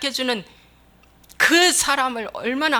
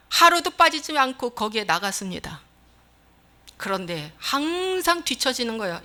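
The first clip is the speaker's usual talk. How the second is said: usual speaking voice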